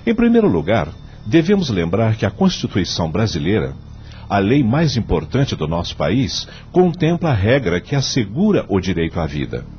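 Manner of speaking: measured, solemn judge delivering his vote; formal court speech. Acted. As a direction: argue the case gravely before the court.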